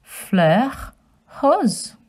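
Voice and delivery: Fleur rose as flur rohz; French pronunciation. Shown as a demonstration. Reminding children how to say pink flower. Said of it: "Do you remember how to say".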